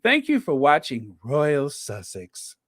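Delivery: lightly sultry sign-off, a hint only. Shown as a demonstration. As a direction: slip into a mild sultry voice. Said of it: "Let me do my best sultry voice".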